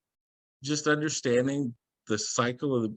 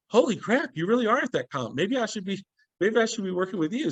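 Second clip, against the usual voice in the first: retold amazed exclamation; 8 semitones higher than usual. Retold amazed reaction to comp.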